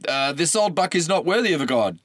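nervously trying to talk the god out of it; tentative attempt. A narrator's reading. Tyrdeus nervously trying to dissuade the god. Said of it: "Tyrdeus tried".

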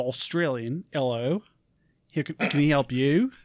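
put-on Australian accent demo; shaky attempt at an Australian accent. Shown as a demonstration. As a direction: show off a modest Australian accent. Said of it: "Let's hear it".

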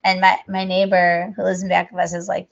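ordinary talk

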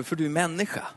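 ordinary delivery

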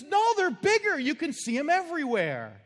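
very high, loud mock bickering husband; hammed-up old man quarrel; mock argument. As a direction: argue back stubbornly. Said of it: "they have an argument".

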